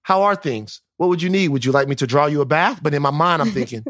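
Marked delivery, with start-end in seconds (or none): 0.0-2.8 mock overpolite son. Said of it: "in my mind, I would be like".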